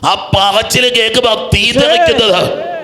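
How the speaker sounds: impassioned high-pitched exhortation; fervent preaching. Retold or imitated. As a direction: testify with passion, then challenge the crowd. Preaching retold testimony and challenge.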